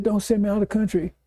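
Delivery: high-pitched retold plea; begging. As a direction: imitate a man begging on his knees. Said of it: "He's begging Suleiman".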